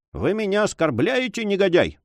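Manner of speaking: understated helpless indignation; faltering. A narrator's reading. Major protesting the sailor's insult, faltering. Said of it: "пролепетал майор".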